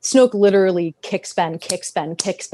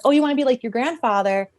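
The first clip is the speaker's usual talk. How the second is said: higher-pitched, lightly voiced sweet-talk; lilting mock flattery, pitched up; mock coaxing; 4 semitones higher than usual. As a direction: egg him on with gushing praise. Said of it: "he was like".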